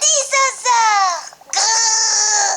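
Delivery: dinosaur roar. Acted. Child roaring like dinosaur.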